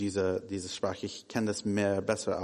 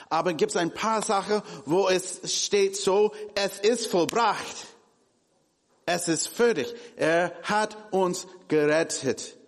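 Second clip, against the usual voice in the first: rising preaching fervor; 8 semitones higher, 4 dB louder than usual. Acted. Preacher proclaiming to the church that it is finished, fervent and high. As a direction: build to a triumphant proclamation.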